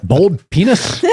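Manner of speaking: stunned, drawn-out question; shocked echo. Retold or imitated. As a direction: repeat it back in shock. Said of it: "and I went".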